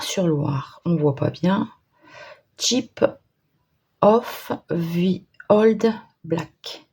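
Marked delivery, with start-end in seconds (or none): 2.6-6.9 French-accented English. Real, not acted. Crafter squints at a small pot's English name, halting French-accented English. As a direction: sound out each English word slowly in a French accent. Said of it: "mon superbe anglais avec l'accent du Nord".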